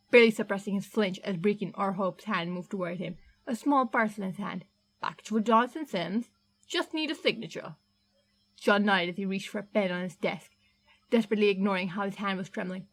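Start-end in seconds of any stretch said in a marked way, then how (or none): 5.0-7.8 a hearty Cockney delivery man, a touch gruff; Cockney accent. Acted. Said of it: "distinctly Cockney".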